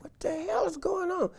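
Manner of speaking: high, frightened cry; jolted awake in fear; alarmed cry. Retold or imitated. Father waking to a scream, alarmed cry.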